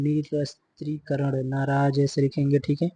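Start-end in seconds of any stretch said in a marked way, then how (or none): 0.0-1.5 निरस्त्रीकरण drawn out in syllables; careful, slow निरस्त्रीकरण; slow model word. Shown as a demonstration. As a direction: say निरस्त्रीकरण slowly, part by part. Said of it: "very important".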